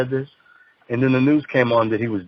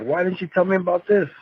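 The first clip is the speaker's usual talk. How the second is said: higher-pitched, questioning mock complaint; lightly acted, raised-pitch reproach; imagined complaint; 6 semitones higher than usual. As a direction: act out a puzzled listener's protest. Acts out interviewer's future complaint.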